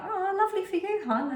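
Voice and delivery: high, sing-song faux-nice friend voice; sweetly dismissive, teasing the friend; imitating a friend's polite brush-off; mock polite reply. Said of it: "she'll either be like".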